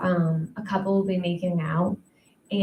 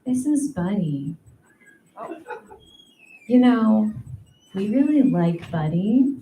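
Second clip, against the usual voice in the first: mock hostage taker.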